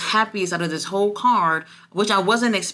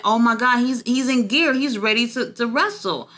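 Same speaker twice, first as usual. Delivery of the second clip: excited disbelief; 5 semitones higher than usual. Retold or imitated. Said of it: "I was just like".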